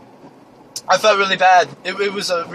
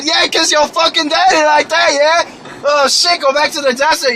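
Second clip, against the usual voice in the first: high, raised jeering yell; mock angry shout; shouted insult; 6 semitones higher than usual. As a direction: taunt him at the top of the voice. Yelling insults at the man.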